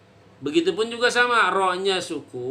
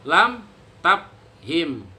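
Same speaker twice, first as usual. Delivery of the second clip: slow model answer; 3 dB louder, much slower than usual. Shown as a demonstration. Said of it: "Hukumnya apa?".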